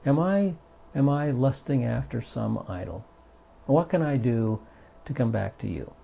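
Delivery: a gentle sample prayer for the class; modeled prayer. Shown as a demonstration. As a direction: pray it softly and sincerely. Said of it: "and ask God".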